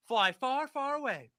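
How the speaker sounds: high, loud reading in own voice; animated read-out. Acted. Host reading Trump's post to viewers, animated and high.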